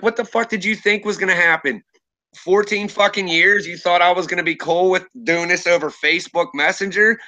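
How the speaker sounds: indignant retelling of telling someone off; retold losing it. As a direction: replay an angry confrontation, moderately worked up. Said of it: "And I lost it".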